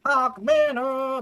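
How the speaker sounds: high, loud and slow; dramatic announcement. Acted. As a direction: announce it like a movie title.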